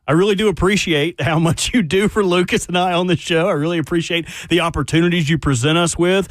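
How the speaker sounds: suddenly conciliatory flattery; changed, grateful tone. Real, not acted. Co-host angling for the extra ticket, ingratiating. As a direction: switch to polite, measured buttering-up. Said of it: "Well, my tone has changed".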